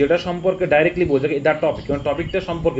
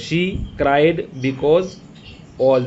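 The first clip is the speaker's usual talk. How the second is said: 1 slow read-out; much slower than usual. Shown as a demonstration. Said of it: "was-এর আগে একটা subject".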